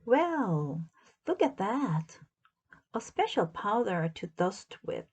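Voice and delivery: mild, pleased exclamation; exclaiming. Acted. Amelia finds dusting powder, mildly exclaiming. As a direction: brighten at the discovery. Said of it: "exclaimed Amelia Bedelia".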